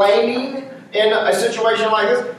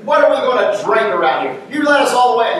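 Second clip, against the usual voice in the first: complaining Israelites; 2 semitones higher, faster than usual. Retold or imitated. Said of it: "You can just hear them now".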